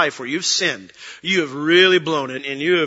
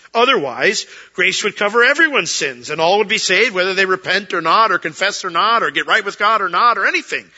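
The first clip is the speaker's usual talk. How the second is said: louder and higher, building intensity; rising preaching; 4 semitones higher, 5 dB louder than usual. Real, not acted. Preacher pressing his congregation, louder and higher. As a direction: drive the point home with force.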